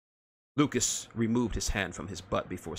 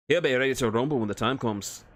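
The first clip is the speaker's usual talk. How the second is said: gruff Scottish-Irish dwarf; 3 semitones higher, 3 dB louder than usual. Acted. Dwarf answers Lucas.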